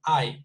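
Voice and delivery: "I" as the diphthong in eye; isolated long I. Shown as a demonstration. Teacher isolating the first vowel of I'll, "I" said as eye. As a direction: sound out the vowel "I" alone, like eye. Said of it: "it's an I".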